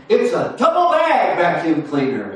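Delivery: mock proud husband, bragging; a hint of a husband sure he has done well. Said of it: "And he goes".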